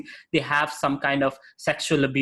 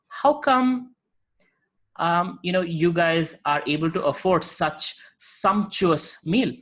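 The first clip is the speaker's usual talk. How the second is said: much higher, slow astonished question; puzzled guru; 3 semitones higher, slower than usual. Acted. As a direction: ask in wonder, drawing it out.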